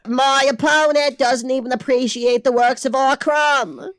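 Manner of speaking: mock presidential debate in Boston accent; JFK impression. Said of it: "busting out these impressions today".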